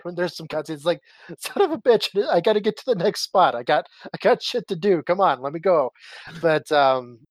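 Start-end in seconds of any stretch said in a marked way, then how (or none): 1.4-5.9 retold annoyance, starting high and settling; impatient gamer grumbling at an interruption; mock impatience. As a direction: play up being held up. Acting out annoyance at cutscenes.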